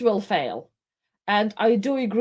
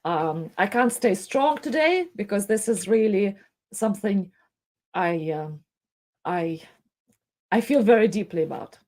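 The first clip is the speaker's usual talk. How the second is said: holding back tears. Real, not acted. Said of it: "I'm sorry I'm carrying out like that".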